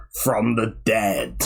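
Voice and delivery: low, slow doom-laden reveal; ominous. Acted. Announcing a soap character's return, low and ominous. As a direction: draw it out low like a horror teaser.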